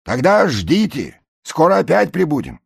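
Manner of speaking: high, loud promise; barge men calling. A narrator's reading. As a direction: call across. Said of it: "говорят те". (обещание с баржи)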